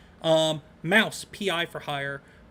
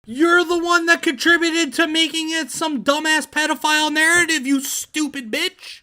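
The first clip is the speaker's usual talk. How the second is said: high, loud angry yelling at the screen; furious shout; 10 semitones higher, 7 dB louder than usual. Real, not acted. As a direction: blast her with a furious high yell. Yelling at the clip of her.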